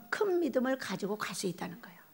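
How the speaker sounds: intimate whispered teaching. Real, not acted. Preacher whispering the lesson to the congregation. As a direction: whisper the key point.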